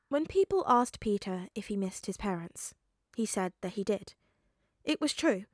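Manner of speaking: steady storybook reading voice; story narration. A narrator's reading. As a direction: read it like an audiobook.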